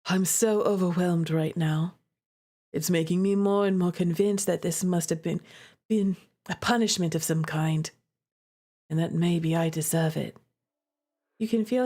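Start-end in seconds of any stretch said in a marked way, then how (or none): 0.1-10.4 lower, heavy, self-blaming voice; despairing young man. Acted. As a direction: sink low, like he's given up.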